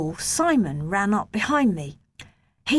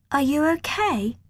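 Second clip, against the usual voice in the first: put-on higher girl's gentle question; 7 semitones higher than usual. A narrator's reading. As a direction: ask kindly, concerned. Roxanne asks gently.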